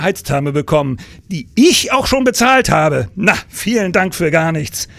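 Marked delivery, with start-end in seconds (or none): 1.3-4.9 lauter, bitter betont, langsam; verbittert. Acted. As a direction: schluck den Ärger bitter runter. Bitterer Ärger über Trennung. (verbittert und langsam betont)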